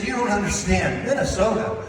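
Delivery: mock dad warning; stress on Minnesota. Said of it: "I said".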